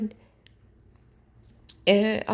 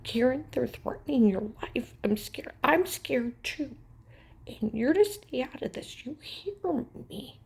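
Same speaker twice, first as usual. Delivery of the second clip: scared pleading; 3 semitones higher, 5 dB louder than usual. Retold or imitated. Dixie pleading with Karen to stay out, scared and louder. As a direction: beg her to stay out of it, frightened.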